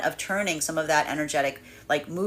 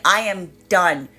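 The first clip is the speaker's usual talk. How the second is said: indignant; 3 semitones higher, 3 dB louder than usual. Retold or imitated. Indignant quote of separated partner.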